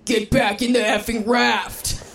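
retold angry snap. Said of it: "promptly lost my absolute S word".

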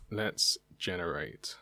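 hushed dramatic whisper. Acted. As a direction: whisper it like a secret. Whispering before generating.

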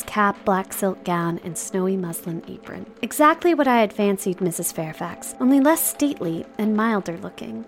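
measured literary read-aloud; novel narration. A narrator's reading. Host reading Jane Eyre to co-host, storybook narration.

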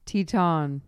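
Teton said TEE-tahn, French style; French pronunciation. Shown as a demonstration. Guest giving the title's French pronunciation. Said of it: "how I was gonna pronounce it".

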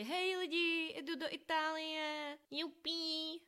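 high, drawn-out cheery social-media greeting; mock-gleeful high sing-out to followers; veselé hlášení. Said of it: "přidávala jsem to veselé na Instagram". (přehnaně veselý vysoký hlásek)

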